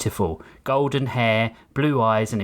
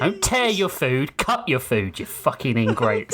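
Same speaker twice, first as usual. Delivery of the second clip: posh master scolding. Acted. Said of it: "the rich master's voice".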